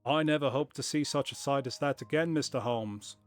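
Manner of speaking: lightly voiced, hammed-up corny accent for Jabez Wilson; corny put-on accent. Wilson telling Holmes about the crowd, in a corny put-on accent. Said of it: "it's kind of fun, though. I think I'll keep doing it".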